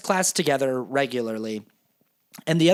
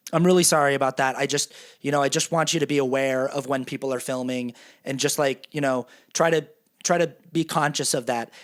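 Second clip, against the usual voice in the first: apologetic; 4 semitones lower than usual. Retold or imitated. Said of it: "I go up to him to apologize".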